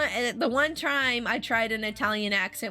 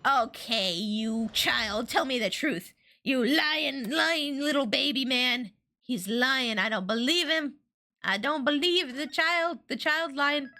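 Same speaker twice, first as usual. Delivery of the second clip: hammed-up scolding, a little higher; mock accusation; 4 semitones higher, slower than usual. Player scolding the child witness in mock outrage. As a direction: tease the witness as a lying baby.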